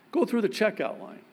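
ordinary delivery

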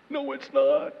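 high, put-on voice; mock contradiction. Preacher debunking his own self-praise, high mock contradiction. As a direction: puncture the piety with a high squeal.

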